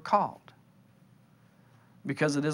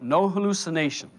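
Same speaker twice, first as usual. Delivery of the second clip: lightly acted echo of the voice; doubter echoing; 2 semitones higher than usual. Listener repeating the voice's words, mildly insistent. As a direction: repeat it back aloud, a touch insistent. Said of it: "You go".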